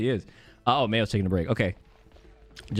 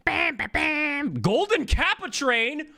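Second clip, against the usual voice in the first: much higher, slow hyped-up announcer call; hype announcer; 12 semitones higher, slower than usual. Acted. Streamer announcing the Golden Kappa train to chat, hyped-up and high. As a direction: sell it like a game-show host. Streamer hypes a donation reward.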